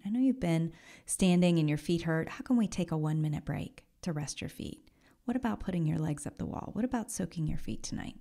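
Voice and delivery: soft, quick, kindly suggestions; loving inner voice caring for sore feet; gentle caring voice. Pretend. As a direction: coax gently, like caring for a tired friend. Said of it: "developed this relationship that says".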